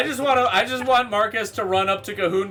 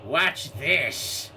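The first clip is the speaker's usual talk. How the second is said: captain about to show off; lightly voiced captain, building suspense; old Joe. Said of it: "then he just goes".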